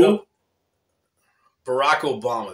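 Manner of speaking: put-on very slow, drawn-out Yugoslavian accent; mock Yugoslavian accent reading a question. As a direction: stretch "Barack Obama" in a hammed-up Yugoslavian accent. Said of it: "Yugoslavian accent".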